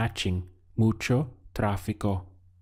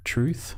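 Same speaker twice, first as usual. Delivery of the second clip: "Truth" rising high like a tag question; "Truth" with an upward questioning tune; 5 semitones higher than usual. Shown as a demonstration. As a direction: lift "Truth" as if asking for agreement. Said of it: "So what you would be saying is".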